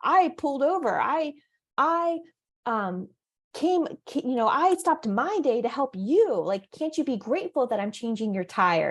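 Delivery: mock-defensive helper pleading his sacrifice. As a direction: act hurt at not being thanked. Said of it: "or we get defensive".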